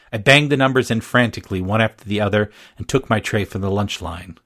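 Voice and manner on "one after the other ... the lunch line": usual speaking voice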